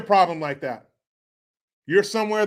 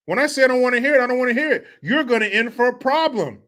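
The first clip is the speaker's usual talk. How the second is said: higher, insistent scolding; mock angry husband; 4 semitones higher than usual. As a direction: put your foot down in a mock quarrel. Acted quarrel with the wife.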